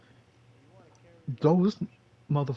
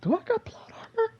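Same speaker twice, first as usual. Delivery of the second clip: high, breathy conspiratorial whisper; mock whisper. Gamer wondering about his luck, whispering to himself. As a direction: whisper it like a secret. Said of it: "I was like".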